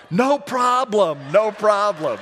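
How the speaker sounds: high, loud and slow no problem; high, loud, drawn-out no problem; eager reassurance. Retold or imitated. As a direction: cover embarrassment with big cheer. Man brushing off the accident.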